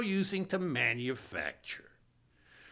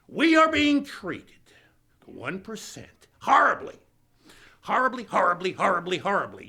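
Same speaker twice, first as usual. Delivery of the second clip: melodramatic whine; 4 semitones higher, 7 dB louder than usual. Retold or imitated. Billionaire melodramatic complaint.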